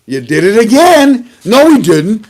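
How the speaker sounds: hammed-up back-and-forth; high mock squabble. Mock argument with Iran.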